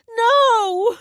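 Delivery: loud, high shrieked no; scream. Acted. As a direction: scream it at her in denial. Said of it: "Helen screamed at her".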